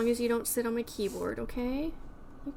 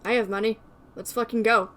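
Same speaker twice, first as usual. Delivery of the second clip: loud, eager burst; excited shout; 7 dB louder than usual. Real, not acted. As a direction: pump yourself up, loudly. Eager to buy katana.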